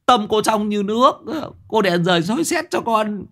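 put-on high childlike ghost voice, pleading; ghost boy voice. A narrator's reading. Dead boy's ghost confessing to the aunt in a high pleading voice. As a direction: tell the story like a begging child spirit. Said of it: "Mày bỏ mẹ cái giọng của mày đi".

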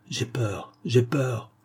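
whispered, mock-scared; a grandfather playfully whispering his fear to the child; frightened whisper. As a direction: breathe it out as if terrified. Old man feigning fear.

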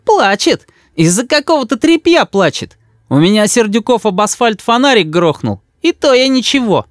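high, mocking scoffing voice; boy mocking his crying mother; scornful boy. A narrator's reading. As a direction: sneer at her tears. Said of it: "«Ха!» сказал Рис".

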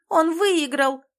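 high, loud outcry; a desperate shouted objection; loud protest. A narrator's reading. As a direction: insist he won, loudly. She protests to guard.

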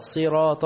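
"صراط" with si and heavy ط; correct kasra. Shown as a demonstration. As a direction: say "صراط" as siraata. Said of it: "مكسورة برضو بالطاء مش بالتاء". («صراط» مكسورة الصاد)

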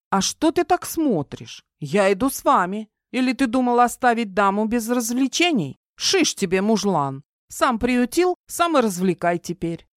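playful, mocking tone of a spoiled lady; teasing lady voice. Audrey teases, higher female voice. (насмешливый женский голос)

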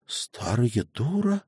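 quiet, slow, stunned echo; shocked gasp. A narrator's reading. Ksenia repeats the insult to herself, quiet shock. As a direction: gasp the words under your breath. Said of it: "ахнула про себя Ксения".

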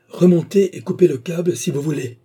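high, loud challenge; defiant shout. A narrator's reading. Stangate tries distracting the madman, shouting a challenge. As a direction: shout it up at him. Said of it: "cria-t-il".

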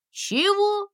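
sudden high squeak of surprise; startled cry. Acted. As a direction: jump up with a high "Чего?". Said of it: "подскочил кот". (испуганный возглас кота)

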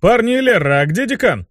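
high, bleated question; bleating. Acted. Imp asking where the dean is, bleating high. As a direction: bleat it out to the squad. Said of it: "проблеял Руперт".

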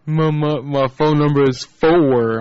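imitating a Southern drawl, four stretched slow; hammed-up hick drawl on four; mock Southern caller. A man mocking a Southern caller's phone number read. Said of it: "It's like".

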